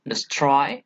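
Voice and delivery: "destroy" with its second syllable stressed. Shown as a demonstration. Teacher shows students an iamb, stress on second syllable. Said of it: "where the stress is gone".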